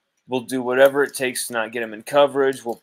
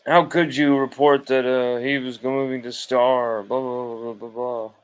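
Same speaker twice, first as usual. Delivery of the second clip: mocking outraged fans.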